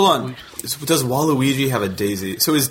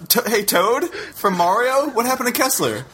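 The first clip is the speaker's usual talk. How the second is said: Toad voice; 9 semitones higher than usual. Acted. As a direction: squeak it out like Toad from Mario. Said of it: "Is that you, Toad?".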